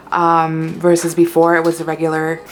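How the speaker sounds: talking while crunching chips; crunching in the background. Real, not acted. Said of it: "excuse the crunching over here".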